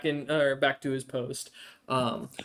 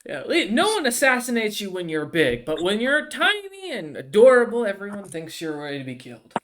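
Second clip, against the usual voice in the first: noble lady voice; 5 semitones higher, 6 dB louder than usual. Acted. GM voices Flare, tiny and adorable.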